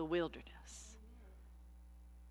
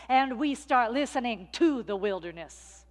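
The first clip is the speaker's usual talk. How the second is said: louder, preaching the phrase out; full voice; 3 semitones higher, 6 dB louder than usual. Real, not acted. Preacher to congregation, proclaiming it aloud. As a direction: proclaim "and we start listening to the wilderness".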